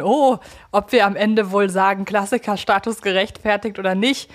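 ordinary talk, nothing marked

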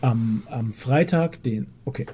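mock solemn funeral announcement; hammed-up grave news reader; theatrical.

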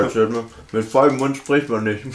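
talking with a mouthful of chocolate; chewing while speaking; mouth full. Real, not acted. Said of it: "Deswegen ist es kurz für euch ein bisschen leise".

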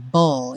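the ending said as "bo", never "ble"; spoken ending. Shown as a demonstration. Teacher shows the -ble ending as "bo". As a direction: say "bo." with a rounded o. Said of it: "a gente nunca fala ble".

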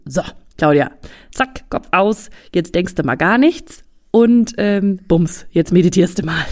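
brisk, commanding pep talk to herself; bossy self-command. Retold or imitated. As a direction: snap orders at yourself. (forsche Selbstanweisung)

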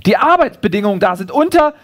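lightly performed shout-after; calling after someone. Acted. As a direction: keep calling until cut short. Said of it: "ruft mir das Känguru hinterher".

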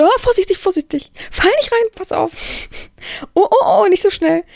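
put-on high, loud fussing mother calling after her child; shrill-free but high and loud, like a mother whose child runs off; overprotective mother. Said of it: "wie wahrscheinlich eine Mutter ist, die so, so überempfindlich ist". (übervorsichtige Mutter, hoch und laut rufend)

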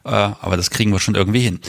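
lisping from a bitten tongue; slushy s sounds, sore tongue. Real, not acted. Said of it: "heute lispele ich hier".

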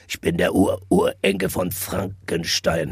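low, slow spooky monster voice; deep monster voice. Retold or imitated. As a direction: drag it out like a lurking monster. Quoting a spooky song line.

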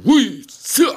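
high, loud kata battle cry; karate shout. Retold or imitated. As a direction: yell it like a karate kiai. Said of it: "machen die schon mal dann so".

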